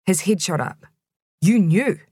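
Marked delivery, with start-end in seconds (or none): 1.4-2.0 louder, higher sharp question; shocked. A narrator's reading. Betrayed neighbour suddenly demanding if she knew, shocked. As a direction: caught off guard, accusing.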